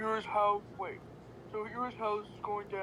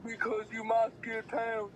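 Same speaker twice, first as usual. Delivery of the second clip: calm. Acted. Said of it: "he said calmly".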